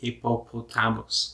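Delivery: slow Filipino-accented Hippopotamus. Shown as a demonstration. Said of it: "pronounce the word in Filipino accent".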